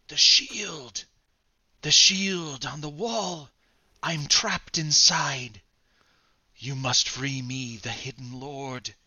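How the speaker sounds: a hint of a giant's voice, slow; lightly voiced giant, begging; Andre the Giant voice. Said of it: "it's Andre the Giant voice".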